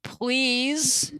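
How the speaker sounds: high, broken-speech goblin; goblin plea. Acted. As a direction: ask politely like a strange goblin. GM goblin asks door opened.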